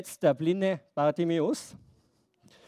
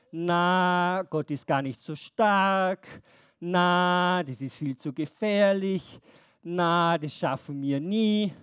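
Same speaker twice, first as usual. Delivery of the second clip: grumbling doubt; 3 semitones lower, slower than usual. Acted. Israelites doubting, voiced by teacher.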